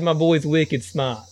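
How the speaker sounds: put-on slow Boston accent with a laugh. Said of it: "It's my Boston accent".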